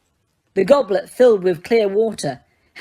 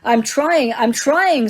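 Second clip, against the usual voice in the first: desperate; 5 semitones higher, slower than usual. Acted. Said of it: "said Harry desperately".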